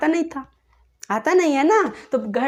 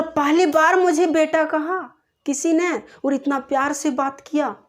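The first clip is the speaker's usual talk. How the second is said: higher, louder retold amazement; moved marvelling; 4 semitones higher, 4 dB louder than usual. Girl amazed the teacher spoke lovingly, moved marvelling. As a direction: voice a child touched by unexpected kindness. Child marvels at kind words.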